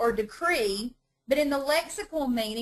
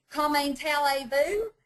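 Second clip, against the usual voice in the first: mock Georgia-French; 4 semitones higher than usual. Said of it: "whacked out French".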